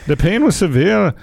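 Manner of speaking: lightly hammed Irish brogue; mock Irish. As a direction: read it as a pretend Irishman. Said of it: "how to do an Irish accent".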